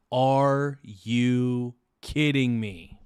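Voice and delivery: stretched-out groan of a question at the score; exasperated disbelief. Real, not acted. To viewers as the Knicks close the gap, slow disbelief. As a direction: drag it out slowly, can't believe it.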